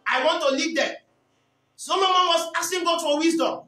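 forceful, emphatic sermon delivery; preaching. Acted. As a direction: preach it out in short, punched phrases. Preaches on Solomon's prayer.

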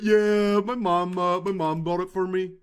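low, put-on smug voice; bragging reply. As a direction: answer the jealous friends with mock nonchalance. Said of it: "I'm gonna be like".

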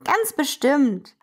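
kleiner Zug, überzeugt und langsam; convinced little train. Acted. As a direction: say it with certainty, slowly. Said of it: "sagt der kleine I C E überzeugt". (überzeugt, wie ein kleiner Zug)

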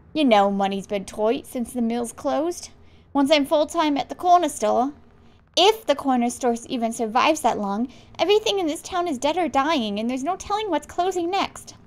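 rough attempt at an Australian accent; worried dad, lightly Australian. Dad explaining tight money to son, attempted Australian accent. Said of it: "trying to do the accent".

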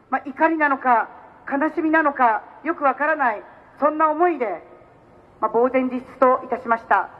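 solemn. Real, not acted. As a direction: speak gravely and subdued. Turns to the shooting, condolences.

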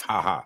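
dry, spoken ha-ha; a token laugh, not really laughing; mock laugh. Co-host showing how they usually laugh, mock laugh. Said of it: "We laugh".

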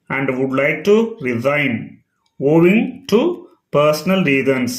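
slow, careful English read-aloud; each word spaced out for learners; slow dictation reading. Shown as a demonstration. Teacher reads the resignation letter to students, slow and measured.

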